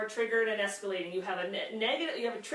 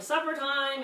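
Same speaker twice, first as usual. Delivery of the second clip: calling Supper time up the stairs a bit louder and higher; mock yelling; 4 semitones higher, 3 dB louder, slower than usual. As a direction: call Supper time up the stairs like a half-hearted yell. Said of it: "And you're yelling".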